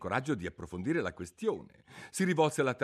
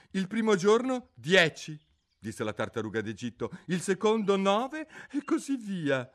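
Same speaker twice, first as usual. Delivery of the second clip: high, mournful creature voice; a sorrowful old turtle reminiscing; mock turtle voice; 10 semitones higher, 6 dB louder than usual. Mock turtle telling Alice about school under the sea, mournfully.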